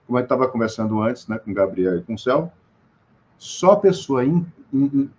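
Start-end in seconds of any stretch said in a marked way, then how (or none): none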